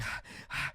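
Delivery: voiceless puff of exertion; mock out-of-breath exhale; imitated panting. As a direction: act out being winded from the chase. Imitates own panting while chasing.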